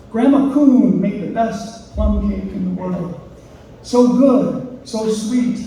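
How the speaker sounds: measured, deliberate poem recital; poetry reading. Acted. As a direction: read your poem to an audience, phrase by phrase. Reads own poem aloud.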